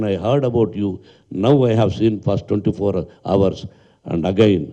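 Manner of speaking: a lightly voiced elder statesman, very slow; drawn-out, word-by-word English praise; retold praise, slowed. Quoting the elder leader's praise to reporters, slowly spaced. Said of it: "అని పొగిడాడు".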